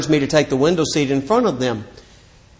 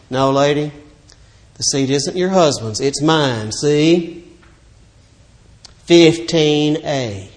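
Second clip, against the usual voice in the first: kind reply; slower than usual. Retold or imitated. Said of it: "I could not help but responding kindly".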